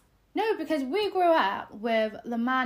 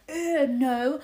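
mock disgusted refusal; 3 semitones higher, 6 dB louder than usual. Mimicking boys who refuse the money, mock disgust. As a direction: imitate a squeamish boy recoiling.

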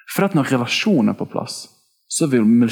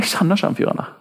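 Peter in a higher, put-on other-dialect voice, half whispered; switched dialect; 8 semitones higher, faster than usual. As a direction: disguise his dialect with a higher, breathy voice. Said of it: "bytter han dialekt nesten". (Peter på en høyere, påtatt annen dialekt, halvt hvisket)

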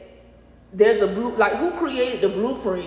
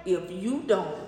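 slow, word by word; staccato; 5 dB quieter, much slower than usual. Shown as a demonstration. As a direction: break each word apart, slowly. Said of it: "See how she breaking them words down?".

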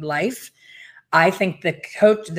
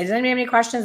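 mock instructor; 6 semitones higher, much faster than usual. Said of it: "they'll say".

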